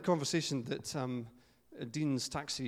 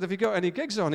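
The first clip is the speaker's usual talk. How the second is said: loud question; 6 semitones higher, 10 dB louder than usual. Retold or imitated. Speaker asks driver a question.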